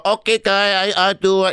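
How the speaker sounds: mock Asian accent. Actor imagining himself turning up for the role, mock Asian accent. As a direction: put on a stereotyped Asian accent. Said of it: "every form of comedy that uses a racist Asian stereotype".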